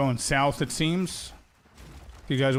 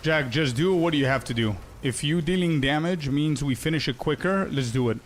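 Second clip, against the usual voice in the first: slight stutter while talking; stumbling over the words a little. Real, not acted. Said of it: "If I'm stuttering a little bit".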